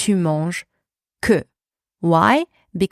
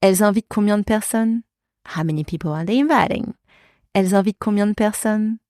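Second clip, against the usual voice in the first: fast native pace; 3 semitones higher, much faster than usual. Shown as a demonstration.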